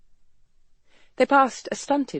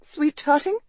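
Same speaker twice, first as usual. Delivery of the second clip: incredulous; 8 semitones higher than usual. Acted. Incredulous echo of his word.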